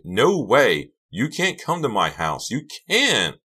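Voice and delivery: high, loud frantic refusal; screaming. A narrator's reading. Karina bars them from her house, frantic screaming. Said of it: "she screamed".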